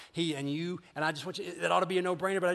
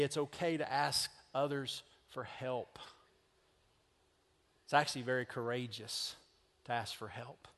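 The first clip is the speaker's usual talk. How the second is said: hushed reassurance; 4 semitones lower, 6 dB quieter than usual. Real, not acted. Quiet pastoral reassurance.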